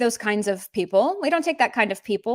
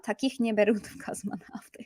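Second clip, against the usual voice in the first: whispered line; 6 dB quieter than usual. Shown as a demonstration. Reading the quoted line aloud.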